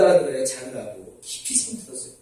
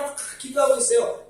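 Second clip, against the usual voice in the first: usual speaking voice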